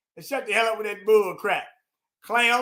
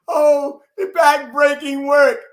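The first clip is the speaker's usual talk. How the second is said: mocking her words; 6 dB louder, slower than usual. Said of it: "that thing she's saying".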